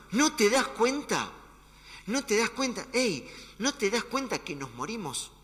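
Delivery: high, slow desperate cry; desperate plea. Acted. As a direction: beg him to notice you're drowning. Discípulos asustados gritan a Jesús. (súplica desesperada)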